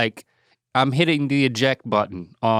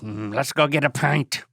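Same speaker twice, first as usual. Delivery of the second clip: mock Irish teasing; hammed-up Irish banter; playful Irish accent. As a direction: tease in a put-on Irish accent. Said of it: "You gotta use an Irish accent".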